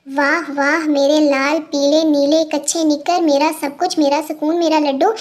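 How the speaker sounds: mock-sweet pet names, low and slow; shower him with fake sweetness; sarcastic mother's mock endearments; sarcastic doting. Mom mocks son's rude phone greeting.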